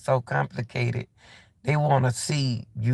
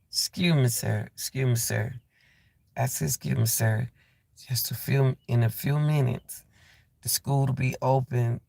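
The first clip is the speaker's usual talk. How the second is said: soft, gentle, polite address to an angry man; calm polite tone; 3 semitones lower, 3 dB quieter than usual. Retold or imitated. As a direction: speak calmly to defuse him. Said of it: "See how the tone of voice I'm giving him?".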